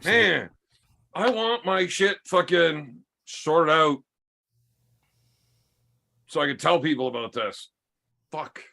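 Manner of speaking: slow, slurring tipsy speech. Real, not acted. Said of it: "I'm getting drunker".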